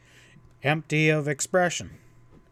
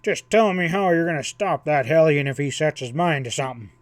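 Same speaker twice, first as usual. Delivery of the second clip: louder, exasperated retort; 5 dB louder than usual. Acted. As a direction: push back hard, exasperated. Ezra retorts in argument.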